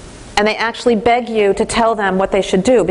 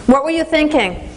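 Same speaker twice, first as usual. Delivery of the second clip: mock scolding; 5 semitones higher than usual. Shown as a demonstration. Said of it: "We don't say".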